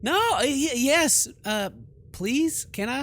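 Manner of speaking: stumbling high-pitched plea to the ghost; flustered pleading. Real, not acted. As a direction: blurt it out, startled and torn. Startled player answers ghostly voice.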